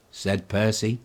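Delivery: ordinary delivery, nothing marked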